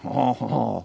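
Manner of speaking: hammed-up French "haw haw haw"; mock French laugh. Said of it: "I love doing the French accent".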